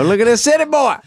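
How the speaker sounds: redneck local. Retold or imitated. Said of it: "And they go".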